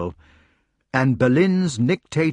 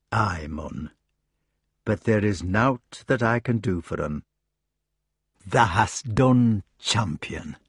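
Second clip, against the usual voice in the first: gruff country badger; 2 semitones lower than usual. Badger answers in dialect.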